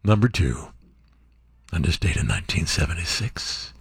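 hushed, very low radio voice; mock smooth late-night announcer; low DJ countdown. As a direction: drop deep and soft for the chart position.

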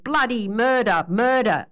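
understated yell for help; mild yell. Acted. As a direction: call out without going full volume. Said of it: "yelled the man from Ironbark".

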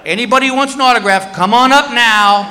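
guard addressing the security line; guard announcing. Retold or imitated.

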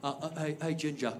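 soft, halting mock British voice; imitated British man, hushed and incredulous; hesitant British heckler. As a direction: ask in quiet disbelief, British accent. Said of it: "the same guy pipes up and he goes".

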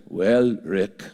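a hint of thick Austrian accent; Peter Drucker Austrian accent. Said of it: "in that thick Austrian accent".

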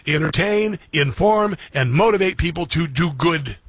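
each word set apart and pushed; host declaring his motto; reciting a mantra. Real, not acted. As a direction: stress Entertain, inform, then motivate. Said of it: "This is my mantra".

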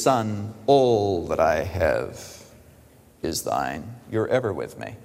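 low, slow and soft, gently reassuring; tender father. Acted. Father gently reassuring resentful elder son, low and tender. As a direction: hush down like a loving father.

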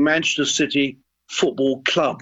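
weight landing on the word "Club"; stress on Club. Shown as a demonstration. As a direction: set "Club" apart at the end, with emphasis. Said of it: "with the emphasis on the word club".

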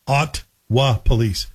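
slow demo of "Ottawa" as OT, wa; dropped middle vowel. Shown as a demonstration. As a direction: stretch "Ottawa" out in two syllables. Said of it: "people leave out that extra vowel".

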